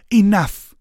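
loud, booming royal command; commanding shout. Acted. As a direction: halt everyone with one word. Princess commands the battle stop.

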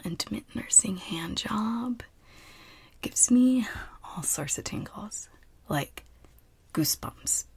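hushed confiding whisper. Acted.

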